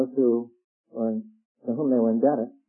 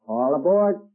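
mild mock train call, louder; sung-out call, only moderately raised; retold conductor's yell; 5 dB louder, slower than usual. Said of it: "all of a sudden he'd yell out".

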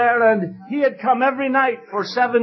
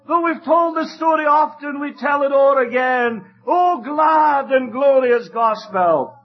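preaching at full force; 3 semitones higher than usual. Acted. Preacher urges the congregation to come to Jesus, fervent preaching. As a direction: build to a fervent revival appeal. Preaching climax and hymn lines.

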